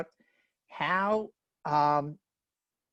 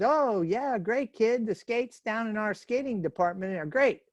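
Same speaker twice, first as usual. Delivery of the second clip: lightly voiced store Santa, pitched up; salesy store Santa; 4 semitones higher than usual. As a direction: give the kid the expected cheery pitch.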